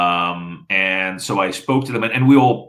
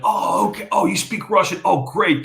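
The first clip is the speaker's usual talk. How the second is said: pleased oh okay, pitched way up; imitating a contact happily finding a shared language; delighted surprise; 10 semitones higher than usual. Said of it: "He's like".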